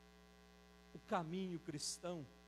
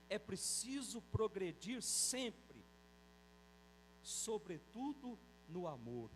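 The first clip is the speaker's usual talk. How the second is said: scripture quote; 2 semitones higher, slower than usual. Acted. Quotes Saint Paul slowly.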